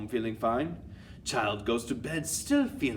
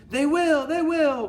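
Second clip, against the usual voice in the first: high, loud excited agreement; acted high-pitched cheer of agreement; audience's cry; 9 dB louder than usual. A narrator's reading. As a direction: cry out like a thrilled crowd. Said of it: "cried the audience".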